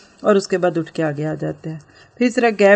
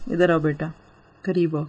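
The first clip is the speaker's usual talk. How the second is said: gentle coaxing; 3 semitones lower, 4 dB quieter than usual. Retold or imitated. Mother gently calls child close.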